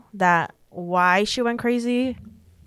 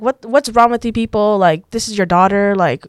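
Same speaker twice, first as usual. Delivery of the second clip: retold sister yelling; 4 dB louder than usual. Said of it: "all I hear is Stephanie in the background".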